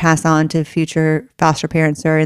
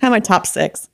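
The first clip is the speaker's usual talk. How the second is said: snotty crying; 2 semitones higher than usual. Real, not acted. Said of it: "She sees me ugly cry all the time".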